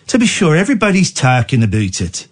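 put-on lilting Irish accent for a quote. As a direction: read it out in a comic Irish brogue. Reads quote in put-on brogue.

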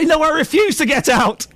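high, slow indignant demonstration; defiant refusal. Shown as a demonstration. Host tells reporter what to say, high slow defiance. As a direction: model a stubborn refusal, drawn out.

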